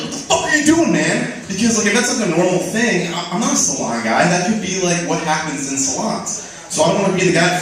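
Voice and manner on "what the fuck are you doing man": mock freak-out. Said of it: "freak out and be like".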